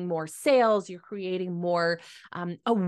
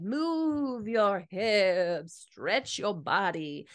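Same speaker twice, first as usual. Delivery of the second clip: imagined naturopath voice; 3 semitones higher than usual. Retold or imitated. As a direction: lightly voice the naturopath. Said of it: "I could imagine her voice like this".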